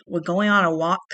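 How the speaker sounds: mildly incredulous question; understated disbelief; skeptical. A narrator's reading. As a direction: question it with a touch of doubt. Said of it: "Marshall asked skeptically".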